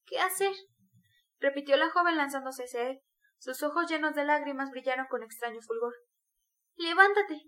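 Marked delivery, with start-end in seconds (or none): 0.0-0.5 high, impassioned echo of a question; agitated exclamation. A narrator's reading. Sonia springing toward Raskolnikov, agitated. 6.8-7.4 high, loud urgent order; impassioned command. A narrator's reading. Sonia pulling Raskolnikov up, urgent command.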